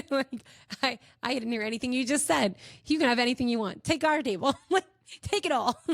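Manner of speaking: high, smitten gushing; swooning. Acted. Woman offers her table to the gorgeous Englishman, swooning. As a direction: gush as if dazzled by his voice.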